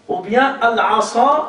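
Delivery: al-asa slow, light sin. Shown as a demonstration. Teacher contrasts al-asa with the emphatic word. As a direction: say al-asa slowly, thin s. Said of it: "ça veut dire un bâton".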